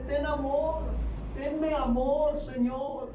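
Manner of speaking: high, begging plea for patience; pleading servant. A narrator's reading. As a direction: beg your master for mercy. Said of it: "le suplicaba diciendo". (súplica de siervo, voz alta)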